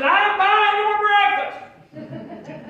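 slow, high, loud and laughing; teasing the old man through laughter; laughing retort. Retold or imitated. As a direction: drag it out grinning.

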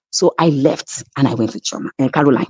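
normal talking voice

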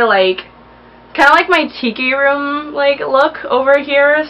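high bubbly excitement; bubbling over with excitement; excited. Real, not acted. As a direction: gush with eager energy. Excited about the paint palette.

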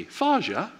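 Faja with a high pleading question lift; child asking dad for advice, sweet high Faja; asking inflection. Retold or imitated. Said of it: "It's always the inflection".

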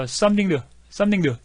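"something to" with the T softened toward a D; soft T as D. Shown as a demonstration. Teacher demonstrating the T turning into D. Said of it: "T 발음을, 어, 약하게 하면 같은 계열의 이 발음인 D로 해요".

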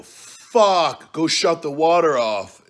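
high, loud urgent yell; retold shout. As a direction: bark the order at the tenant. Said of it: "So I go".

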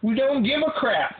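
high, slow mocking whine; high sneering viewer voice; mocking commenters. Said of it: "everyone's just like".

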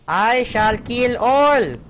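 slow, booming, high evil proclamation; menacing villain voice. Pretend. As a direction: drag it out like a movie villain. Reading villain's message aloud.

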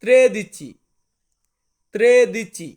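loud clear ত্রেদিচি for learners; Italian word demo. Shown as a demonstration. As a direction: model ত্রেদিচি loudly. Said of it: "তেরোকে আমরা Italian ভাষাতে বলবো".

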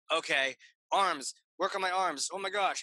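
mock tense inner monologue; tense self-coaching. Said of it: "you're really tense".

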